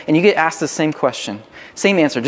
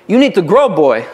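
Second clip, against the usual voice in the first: put-on Jamaican accent yell; 5 dB louder than usual. Jamaican soccer coach yelling at a middle schooler, imitated accent. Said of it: "yell at me in his Jamaican accent".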